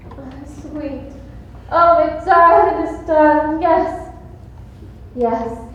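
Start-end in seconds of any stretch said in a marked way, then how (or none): 1.7-4.1 high, loud singsong darling; swooning singsong. Acted. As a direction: croon it like a love song. Swooning on phone.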